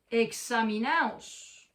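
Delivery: examinaos, loud and drawn out; slow emphatic command. Shown as a demonstration. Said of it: "Dios dice".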